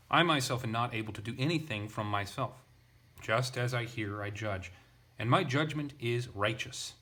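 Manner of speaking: each statement pressed like an exclamation; emphatic reading. Shown as a demonstration. Teacher reading his translation of Jesus, emphatic. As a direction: read it with exclamation-mark force. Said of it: "just put exclamation marks at the end".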